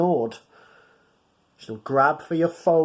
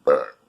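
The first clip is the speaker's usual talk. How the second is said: mock burp. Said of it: "I didn't mean to actually burp".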